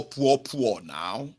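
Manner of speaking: "poor, poor" drawled slowly with a rise; slow mocking chant; slow repeated taunt. Shown as a demonstration. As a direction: rub it in slowly. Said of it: "Eh, poor now".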